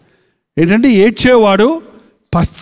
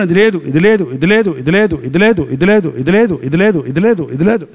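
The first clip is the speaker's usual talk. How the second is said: mock brooding litany; 4 semitones lower than usual. Imitating depressed person's fixation.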